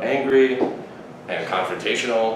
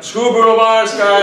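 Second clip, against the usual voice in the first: higher, louder retold demand; mock outburst; 9 semitones higher, 6 dB louder, slower than usual. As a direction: play up a brash, raised-voice rant. Acted outburst to friend about wine.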